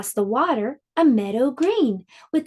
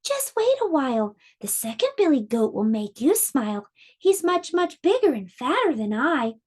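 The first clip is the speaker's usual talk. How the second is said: lightly higher little goat; 3 semitones higher than usual. Acted. Littlest goat tells the troll to wait, lightly higher. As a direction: coax the troll, small and quick. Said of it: "said the littlest billy goat".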